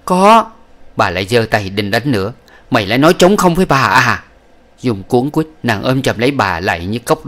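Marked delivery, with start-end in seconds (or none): 0.0-0.5 very high, sudden terrified yes; frightened answer. Acted. Terrified concubine answering the old woman, very high. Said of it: "nàng hết hồn vội đáp". 2.7-4.2 angry scolding. Acted. Old woman scolding concubine.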